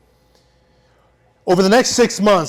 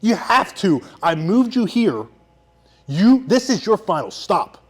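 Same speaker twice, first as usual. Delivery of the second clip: mock yell; 5 semitones higher than usual. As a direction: push him like a drill sergeant. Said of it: "And I'm screaming at him".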